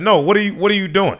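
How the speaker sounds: high, exasperated repeated demand; retold anger. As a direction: replay a mild indignant telling-off. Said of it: "I was so mad".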